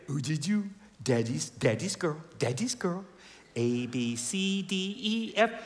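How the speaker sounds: put-on light sing-song talk to a baby; lightly cooing baby talk. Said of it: "what's baby talk".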